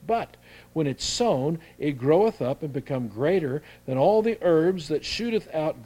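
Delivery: King James reading voice; scripture reading. Acted. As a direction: read the verse out to the church. Reads scripture aloud.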